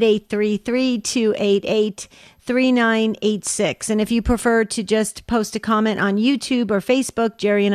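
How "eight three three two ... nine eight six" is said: digits read out slowly and clearly; slow phone number. Shown as a demonstration. Host slowly repeats the number for callers. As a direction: say "two eight eight" slowly, giving callers time to write.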